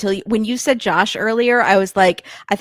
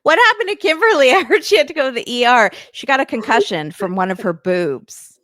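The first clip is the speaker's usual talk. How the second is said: high-pitched question, quick giggling answer; mock gossip; 3 semitones higher than usual. Co-host imagining talk of a boob concussion, mock gossip. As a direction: play two gossips trading absurd news. Acting out gossip about an injury.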